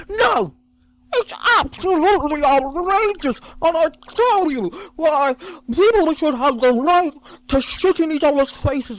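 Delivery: shouted, high, hammed-up outrage; mock outraged rant. Comic ranting at the crowd, mock fury. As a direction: bellow it like an indignant protester.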